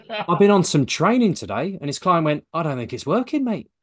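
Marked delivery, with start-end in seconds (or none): 0.1-1.8 higher, louder imitated East London accent; East London wide boy. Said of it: "he talked like this". 2.5-3.7 lightly mimicked East London accent; a hint of East London client; imitated East London client. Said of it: "Like that".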